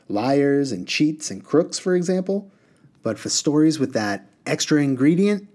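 lightly voiced knowing genie. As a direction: genie lecturing a boy. Reader voices the water genie.

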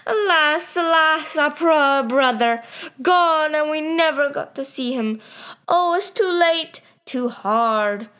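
high, hammed-up lament; theatrical fake sorrow, pitched high; mock crying. A narrator's reading. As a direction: wail in put-on grief. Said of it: "started to cry and said".

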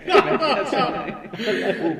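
loud, slow echoing voice. Acted. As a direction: say it through a big echo. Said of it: "Let me turn that echo off".

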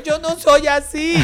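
high, slow half-yelled protest; lightly hammed-up shout after him; mock yell. Calling after the angry man, mock high slow yell. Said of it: "me dan ganas de gritarle".

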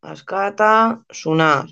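askatasuna said slowly, syllable by syllable; careful repetition. Shown as a demonstration. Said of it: "Así como suena". (askatasuna pronunciado despacio y con cuidado)

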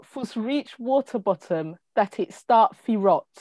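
slow, deliberate reading in tentative Jamaican patois; unconvincing Jamaican accent, taken slowly; attempted Jamaican accent. Shown as a demonstration. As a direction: try the Jamaican proverb carefully, word by word. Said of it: "you're gonna do a Jamaican accent or try".

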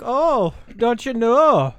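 put-on high, sing-song northern Minnesota accent. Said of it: "they'd be like".

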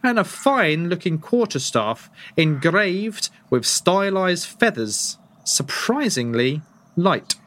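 slow, deliberate game master read; slow scene narration. Acted. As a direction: set the scene slowly, item by item. GM lists weapons on the wall.

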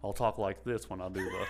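low joking robot voice; put-on robot guy talk. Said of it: "it's the robot voice".

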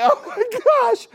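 high, drawn-out gushing; mock overwhelmed fan. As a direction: imitate a starstruck worker gushing. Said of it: "They're like".

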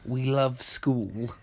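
drawn-out, mocking cheer; mock school spirit. Teasing the film's case of school pride, drawn out slowly. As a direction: stretch the words out slowly in mock devotion.

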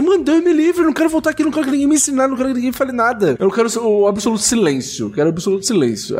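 a gamer fed up with endless dialogue begging for silence; fed-up outburst. Retold or imitated. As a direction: blurt it out like you've had enough of the lectures. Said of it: "Aí você fala assim".

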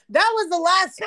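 words breaking into laughter; laughing while talking. Real, not acted. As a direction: tell it through your laughter. Laughing at her own story.

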